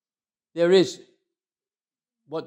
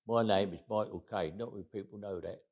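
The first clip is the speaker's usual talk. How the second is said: lightly done Cockney self-impression; Michael Caine doing Michael Caine; impersonating himself. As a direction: send up his own catchphrase in Cockney. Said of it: "That's my impersonation of me".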